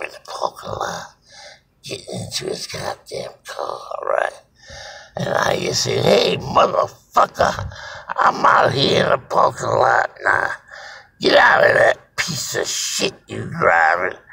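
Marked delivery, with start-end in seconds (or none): 6.0-14.2 calling out. Retold or imitated. Calling out in parking lot.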